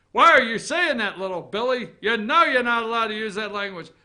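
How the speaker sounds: a mock scolding mother, loud; scolding mom. Mother scolding little Billy for swearing. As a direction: play the mom catching her kid swearing.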